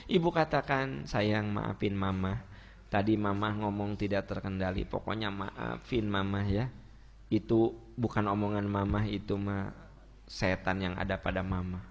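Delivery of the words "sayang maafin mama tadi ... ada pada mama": tender apology. Acted. Mother apologizing to her child.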